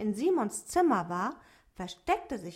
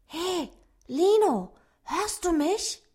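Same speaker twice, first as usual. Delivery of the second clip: higher, slow little dwarf voice; dwarf calling softly; 9 semitones higher, 7 dB louder than usual. A narrator's reading. Dwarf Otto calls to the rabbit Lino in a higher, small voice. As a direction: call the rabbit carefully in a small voice. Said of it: "und flüsterte".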